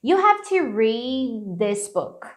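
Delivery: slow model, d of "read" held unreleased into "this"; slow, linked "read this"; held-back D. Shown as a demonstration. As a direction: stretch "read" and swallow its d before "this". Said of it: "eu dou uma segurada nesse D".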